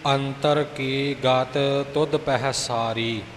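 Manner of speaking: slow model reading with a soft, unstressed ਸਾਰੀ; ਸਾਰੀ spoken softly, without weight. Shown as a demonstration. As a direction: recite slowly, saying ਸਾਰੀ lightly. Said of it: "ਸਾਰੀ ਇਉਂ ਪੋਲਾ ਬੋਲਣਾ".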